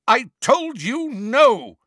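loud, high, slow furious roar. A narrator's reading. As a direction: roar it at her. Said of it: "Malfoy roared".

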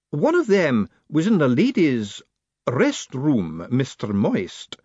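high, slow, stern matron's voice; a formidable lady laying down the law; imperious high-pitched battleaxe; demanding old woman. Acted. Matron's voice held.

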